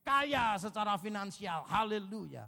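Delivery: mock prosperity preacher. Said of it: "bilangnya gini".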